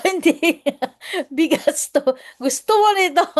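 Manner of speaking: loud, high call to a deaf elder; raising the voice to offer rice; shouted answer. Retold or imitated. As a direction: shout it so grandma hears. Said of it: "Sabi ko".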